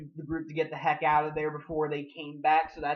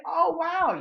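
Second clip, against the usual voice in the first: high, loud impressed "wow"; mock amazement; 12 semitones higher, 6 dB louder than usual. Reviewer acting out a viewer's hopeful reaction, amazed.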